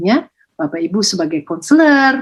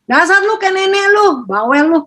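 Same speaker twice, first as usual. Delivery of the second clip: mocking insult; 11 semitones higher than usual. Parent mocking a child as a nag, in a high jeering voice. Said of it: "kita bully anak kita".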